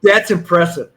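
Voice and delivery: loud, admiring remark; impressed exclamation. Retold or imitated. Cop praising the fan who recognized him, loud and impressed. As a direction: sound truly impressed by the stranger. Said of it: "I go like".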